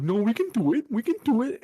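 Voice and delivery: high-pitched, whiny mock reassurance; hammed-up high whine; mock pleading Democrats. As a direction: squeak it out like an eager pushover. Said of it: "the Democrats are like".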